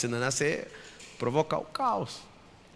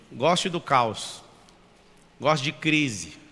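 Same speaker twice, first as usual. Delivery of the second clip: slow emphatic; much slower than usual. Real, not acted.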